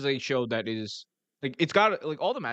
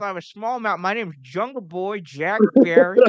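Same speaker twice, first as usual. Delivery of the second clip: put-on old grandpa voice, mushy mouth, higher and louder; 7 semitones higher, 8 dB louder than usual. Mocking a wrestler's bad promo: Jungle Boy Jack Perry impression. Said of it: "kinda did sound like an old grandpa with mush in his mouth".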